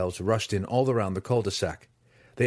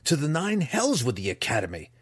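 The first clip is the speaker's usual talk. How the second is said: spat; 6 semitones higher than usual. Acted. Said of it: "Drizzt spat".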